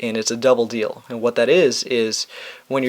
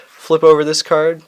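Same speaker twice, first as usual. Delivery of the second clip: slow and dramatic, a bit higher and louder; dramatically slow; 4 semitones higher, 5 dB louder than usual. Shown as a demonstration. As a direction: draw it out for suspense. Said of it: "And dramatically, slowly".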